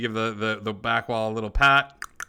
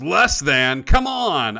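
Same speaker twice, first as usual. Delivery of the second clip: card player's outburst; 3 semitones higher, 8 dB louder, much slower than usual. Acted. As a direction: call it out indignantly across a game. Card player protests aloud.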